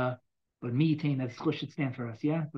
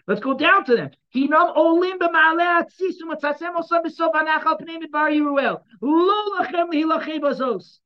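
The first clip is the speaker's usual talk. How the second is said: high, loud, impassioned proclaiming of the verses; preaching at full force; 12 semitones higher, 9 dB louder than usual. Acted. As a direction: call the prophet's words out to the whole nation. Preaches the prophet's words.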